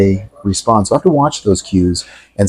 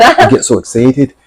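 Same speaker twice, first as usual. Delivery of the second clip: playful Irish lilt, higher and drawn out; put-on Irish accent; 4 semitones higher, slower than usual. Joking that Celtic music changes his accent, put-on Irish. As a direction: slip into a slow Irish accent. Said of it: "my accent changes".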